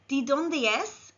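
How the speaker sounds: slow, careful "¿De dónde es?" with rising tune; model Spanish phrase. Shown as a demonstration. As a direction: say "¿De dónde es?" slowly for learners. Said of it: "Repeat after me".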